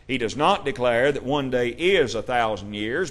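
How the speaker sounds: "not" leaned on with a rise; stress on not. Shown as a demonstration. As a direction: press the word "not" in "does not declare". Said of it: "Notice there is a difference in as and is".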